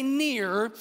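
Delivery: "near" drawn out with a rise. Shown as a demonstration. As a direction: lead the crowd: "near". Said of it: "everyone say".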